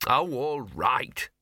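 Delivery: slow weary sigh. Acted. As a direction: drag it out, resigned. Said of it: "Gaspode sighed".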